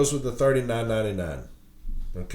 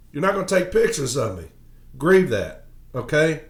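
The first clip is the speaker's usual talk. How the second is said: angry rant; 3 semitones higher than usual. Real, not acted. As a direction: vent hard about being photographed. Angry rant about management pictures.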